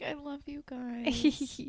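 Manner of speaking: high, slow, sugary cute voice; cute squeaky voice. Retold or imitated. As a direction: coo it sweetly and slowly. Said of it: "Alex does a cute voice".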